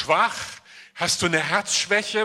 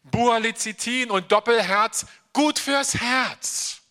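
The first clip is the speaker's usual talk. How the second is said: mock ad slogan; 5 semitones higher, 3 dB louder than usual. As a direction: sell it like an old TV tonic commercial. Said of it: "diesen Ratschlag schon gehört".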